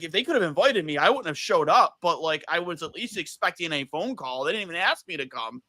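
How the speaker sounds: mock indignant rant with swooping pitch; Barnaby flipping out. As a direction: imitate an offended man's complaint, mildly worked up. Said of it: "flipped out".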